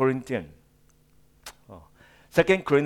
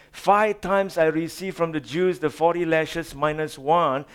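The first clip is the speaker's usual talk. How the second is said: impassioned scripture reading; 3 semitones higher than usual. Acted. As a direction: pile up each boast with rising fervor.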